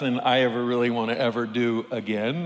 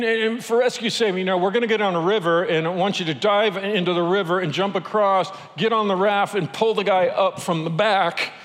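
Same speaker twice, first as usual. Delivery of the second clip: higher, brisk instructions; imitating guide's orders; 5 semitones higher than usual. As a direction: bark out the drill casually. Guide gives test instructions.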